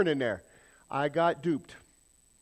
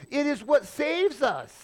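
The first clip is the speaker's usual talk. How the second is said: lifted, higher reading of the verse; scripture reading voice; 7 semitones higher than usual. Acted. Preacher quotes verse nine to the congregation, lifted reading voice. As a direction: read it out like holy text. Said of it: "verse nine goes on and says".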